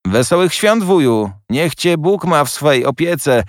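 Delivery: high, bright-spirited greeting, called across the room; cheerful young nephew calling out. A narrator's reading. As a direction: burst in calling out a merry greeting, pitched high. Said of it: "zawołał młody, sympatyczny głos". (radosne wołanie młodego siostrzeńca, wysoko)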